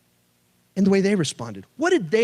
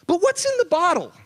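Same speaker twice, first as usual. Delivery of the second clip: sudden wondering thought; 10 semitones higher than usual. Retold or imitated. Sudden curious thought, retold.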